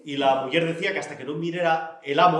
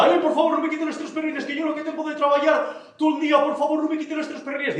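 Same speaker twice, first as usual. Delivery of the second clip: súplica aguda y asustada; temblando de miedo; 10 semitones higher, 4 dB louder than usual. Acted. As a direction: ruega con la voz muy alta y temblorosa. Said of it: "empezó a temblar. Pero de miedo". (Xico suplica aterrado al ladrón, voz muy aguda)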